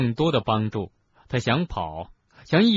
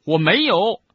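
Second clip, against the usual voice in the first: Harry's high, loud outcry; high shriek; 9 semitones higher, 8 dB louder than usual. A narrator's reading. Harry protests to his headmaster, shrieking high and loud. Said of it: "哈利高声尖叫".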